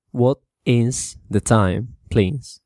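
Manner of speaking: polite. Shown as a demonstration. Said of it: "más educada".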